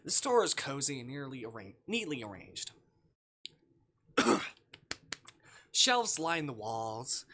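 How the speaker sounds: calm storybook read of the game text; game narration. Acted. Streamer reading visual novel text to chat, calm narration. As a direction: narrate the scene evenly to the viewers.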